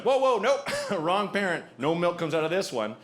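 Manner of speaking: high, alarmed whoa; startled dad. Retold or imitated. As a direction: back off the baby in a fluster. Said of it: "I was like".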